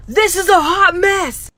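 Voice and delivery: slow, loud, high scolding yell; imitated scream. Strict teacher screaming at a messy line of kids, slow loud yell. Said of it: "starts screaming".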